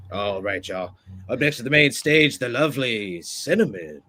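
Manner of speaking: lightly put-on strip-club DJ announcer; radio DJ voice. Shown as a demonstration. Former club DJ introducing a dancer, light radio DJ voice. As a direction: introduce the next act, stretching out the name. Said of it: "the radio D J voice".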